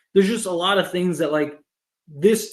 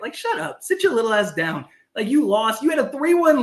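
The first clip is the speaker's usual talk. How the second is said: ranting put-down; 4 semitones higher than usual. Real, not acted. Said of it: "enough of my rant".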